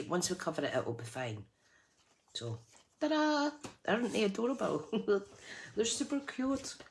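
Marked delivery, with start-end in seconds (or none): 3.0-6.8 excited reveal. Real, not acted. Crafter revealing finished booklets.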